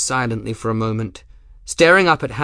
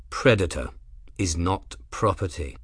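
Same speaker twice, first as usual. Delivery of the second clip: low, even and soft; calm, level tone; 3 semitones lower, 4 dB quieter than usual. Acted. Grim answering Rook's threat, calm and level. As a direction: keep it dead level, no heat. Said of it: "in a calm, level tone".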